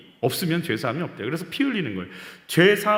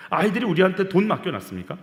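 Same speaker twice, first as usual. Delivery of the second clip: ordinary talk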